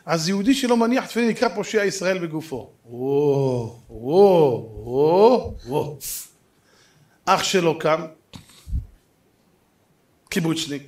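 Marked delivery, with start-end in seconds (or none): 2.9-6.0 long drawn-out "wow", swelling and fading; rising waves of an imitated murmuring crowd; mock crowd gasp. Preacher mimics the audience's reaction to being called sinners, mock shocked.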